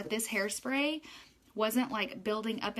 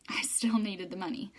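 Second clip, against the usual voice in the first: confiding whisper. Real, not acted. Confessing spending habits.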